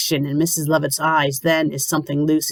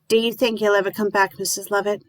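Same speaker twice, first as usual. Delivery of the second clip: wistful; 4 semitones higher than usual. Acted. Grieving widow asks.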